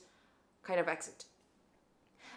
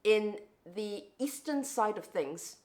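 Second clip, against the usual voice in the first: slow, careful British-leaning accent; measured, enunciated British-tinged English; well-enunciated British-leaning accent. Shown as a demonstration. Speaker shows how locals won't understand, well-enunciated British-leaning accent. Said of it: "if I speak like this".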